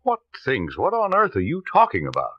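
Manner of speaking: indignant disbelief. Acted. Doctor cornered by the detective, rattled high indignant protest. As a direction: pitch jumps high, rattled and defensive. Doctor accused of faking wife's death.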